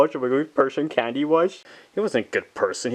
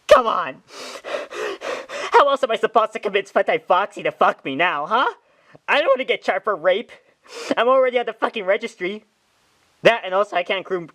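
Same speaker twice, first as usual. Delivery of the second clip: whiny Bonnie; 5 semitones higher than usual. Acted. Bonnie complains about the lost channel.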